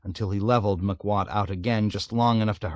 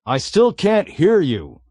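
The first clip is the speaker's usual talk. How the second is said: innocent calling back; 8 semitones higher, 6 dB louder than usual. A narrator's reading. Navigator calls back innocently over engine noise. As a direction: call back mildly puzzled over the noise. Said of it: "Arfi called back innocently".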